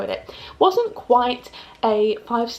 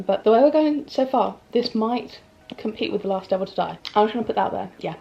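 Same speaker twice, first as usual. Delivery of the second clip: lisp. Real, not acted. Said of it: "and I won't have a lisp".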